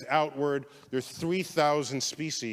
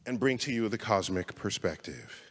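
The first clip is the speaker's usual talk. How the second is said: lower, softer after a cleansing breath; calmed down; 6 semitones lower, 4 dB quieter than usual. Real, not acted. Lecturer calms himself before offering perspective, softer. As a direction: settle yourself and speak gently. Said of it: "I have to calm down".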